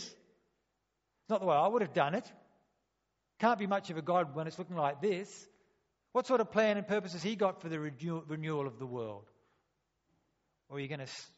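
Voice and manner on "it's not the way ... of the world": mock indignant grumble; proud resentment. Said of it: "respond with pride and resentment".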